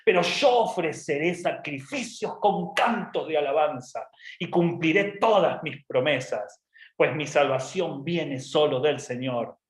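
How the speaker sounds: slow, emphatic vowing; Jonah's pompous prayer. Acted. Jonah promising sacrifices, pompous and solemn. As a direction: declaim each promise grandly. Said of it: "toda la pompa".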